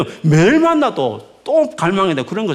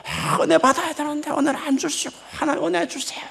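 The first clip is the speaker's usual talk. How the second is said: high, strained mock prayer; exaggerated desperate plea, pitched high; overly serious pleading; 10 semitones higher than usual. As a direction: imitate someone begging God far too earnestly. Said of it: "막 이렇게 너무 시리어스해요".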